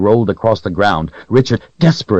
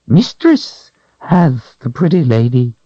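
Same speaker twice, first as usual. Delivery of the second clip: high whining creature voice; creature whine; 7 semitones higher than usual. A narrator's reading. Creature whining to Richard about the Calthrop. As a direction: whine it out, cringing.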